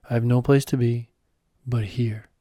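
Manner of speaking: calm and deliberate, leaning on each word. Acted. Guide showing the student how to say it, calm and emphatic. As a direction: say it slowly and mean it. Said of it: "this time a bit slower, calmer, and more emphatic".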